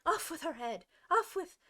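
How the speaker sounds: high, loud furious scream. Acted. Furious queen to Alice, screaming. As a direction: scream it, rising in rage. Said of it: "began screaming".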